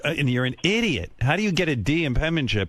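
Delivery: mild mock dad scolding; imitated yelling father. Father berates son over penmanship grade, mild mock yell. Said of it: "he just fucking yelled at me".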